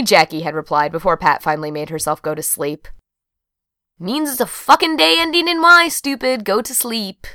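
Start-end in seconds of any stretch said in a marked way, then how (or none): 4.0-7.3 irritated reply. A narrator's reading. Sister's irritated texted reply.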